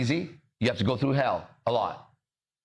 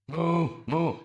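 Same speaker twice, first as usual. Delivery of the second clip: higher-pitched imitation moos; cow moo with meaning; 4 semitones higher than usual. Cow trying to say something, higher imitated moos. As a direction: moo as if saying something in words. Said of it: "I'm saying something".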